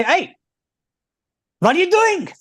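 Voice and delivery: high, loud mock Yiddish accent. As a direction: scold Moses in a hammed-up Yiddish accent. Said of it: "with a nice Yiddish accent like that".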